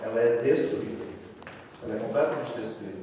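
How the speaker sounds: speaking up. Real, not acted. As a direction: speak up so the group hears. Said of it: "Fala bem alto".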